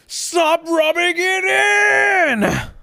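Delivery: high, slow, drawn-out shout; hammed-up wail of protest; mock outraged shout. Streamer teased about dying pig, mock furious shout. Upset at pig-death jokes.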